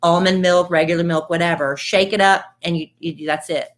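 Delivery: upbeat podcast ad read; friendly sponsor read. Acted. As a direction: sell it like a host-read ad. Host reads sponsor ad.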